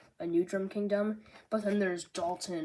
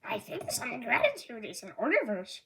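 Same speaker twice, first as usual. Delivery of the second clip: Rob Lucci impression; 4 semitones higher than usual. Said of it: "My Rob Lucci impression".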